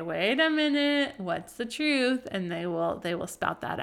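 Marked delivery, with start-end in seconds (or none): 0.0-2.3 playful mom prompt. Retold or imitated. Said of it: "I say".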